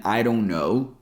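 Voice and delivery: "don't" with its D flapped like a quick T. Shown as a demonstration. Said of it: "the D sound in".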